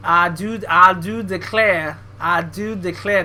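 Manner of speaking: slow, exaggerated Southern belle phrase; bad Southern accent. Shown as a demonstration. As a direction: lean into a hammed-up Southern accent. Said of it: "That's where it has to come from".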